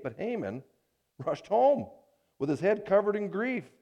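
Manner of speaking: measured reading of the passage, lifting each quoted voice; scripture reading. Acted. Preacher reading Esther aloud to his church, storytelling. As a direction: read the Bible story to the congregation.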